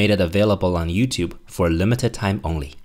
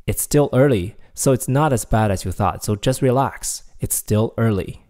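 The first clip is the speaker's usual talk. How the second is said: reassuring. Shown as a demonstration. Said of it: "It's like saying".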